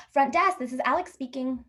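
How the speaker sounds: a hint of polite phone greeting; front desk clerk. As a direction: answer like a hotel front desk. Voicing the hotel front desk.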